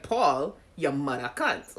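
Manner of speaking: "mother cunt" with a hard t on "cunt", Caribbean style; sounds like cussing. Shown as a demonstration. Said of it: "the way it sounds is like".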